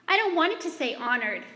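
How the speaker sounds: mother mimicking her daughter's meltdown over "honored"; upset child. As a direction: whine like a frustrated kid who hates the word. Child melting down over word.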